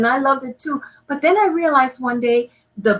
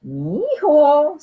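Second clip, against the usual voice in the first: fond father; 6 semitones higher than usual. Acted. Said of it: "said Papa".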